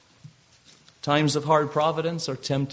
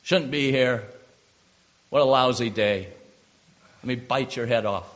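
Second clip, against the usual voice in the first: mock grumbling, louder than usual; griping; 5 dB louder than usual. Preacher voicing the griping Joseph never did in prison, griping. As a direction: complain like a sore, put-upon prisoner. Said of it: "It wasn't by griping".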